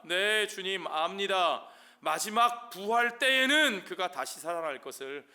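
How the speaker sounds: a touch of earnest protest, pitch lifted; lightly acted Martha. Martha answering the Lord about the resurrection, lightly acted and insistent. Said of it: "마르다가 뭐라고 말하느냐?".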